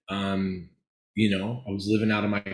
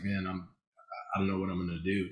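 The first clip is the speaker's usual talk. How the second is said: retold despair; 2 semitones lower, 9 dB quieter, faster than usual. Retells confessing he was lost.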